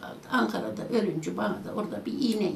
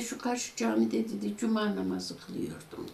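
quiet dream voice; 3 semitones lower, 7 dB quieter than usual. Retold or imitated. Dead son answering in dream. (rüyadaki oğlun yumuşak ve yavaş sesi)

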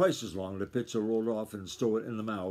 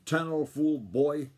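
angry shout; 2 semitones higher, 3 dB louder than usual. Acted. Grandfather throwing down his hat, shouting at the boy. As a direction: blast the boy, spitting out each word. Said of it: "and shouted".

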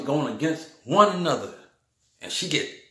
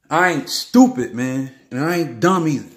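indignant; 5 dB louder than usual. Real, not acted. Defending himself in the rant.

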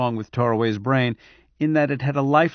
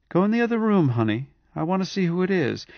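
imagined wife's voice; 6 semitones higher than usual. A narrator's reading. Wife imagined telling lover.

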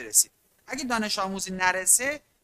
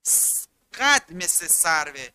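slow example; 4 semitones lower, slower than usual. Shown as a demonstration.

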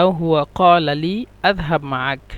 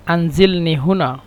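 slow teaching read. Shown as a demonstration. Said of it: "আমাকে এখানে নামিয়ে দাও".

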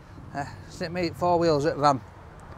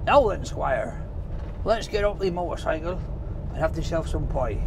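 put-on rural Cornish accent. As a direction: play at a Cornish country local. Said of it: "like, Cornwall, isn't it? Who speak like that".

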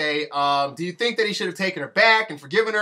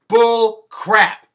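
louder, dismissive scoff; 4 semitones higher, 8 dB louder than usual. Real, not acted. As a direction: spit it out in disgust. Scoffing at the reunion.

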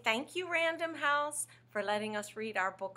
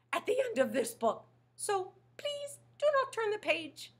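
lightly voiced monster begging; a hint of a fussy puppet; coaxing the kids not to turn; pleading Grover.

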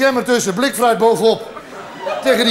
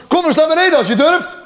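prisoner's raised, higher-pitched call; 6 semitones higher than usual. Acted. Prisoner to the pillar saint above, calling out. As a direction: call a challenge up to someone above. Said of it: "de gevangene roept".

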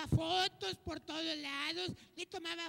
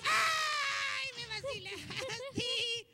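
mock indignant outburst; 2 semitones higher, much slower than usual. Host fooled by his friend's riddle, mock indignation. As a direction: cry out as if hammily duped.

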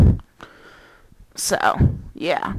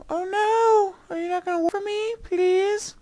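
pleading; 9 semitones higher, 7 dB quieter than usual. Real, not acted. Pleading with broken karaoke.

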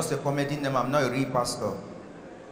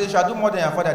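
higher, louder, pressing the neighbor; louder insistent repeat; 3 semitones higher, 5 dB louder, much faster than usual. Retold or imitated. Comedian pressing a silent neighbor to repeat, insistent. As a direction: say it again with more push. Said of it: "I said".

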